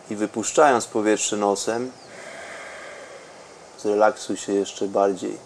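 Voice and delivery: soft, close breathing instructions; right in your ear. Acted. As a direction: murmur it close to the mic.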